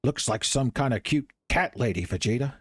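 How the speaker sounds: a hint of a smug Vegeta; Vegeta impression. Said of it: "Saiyan Saga Vegeta showed up. He was like".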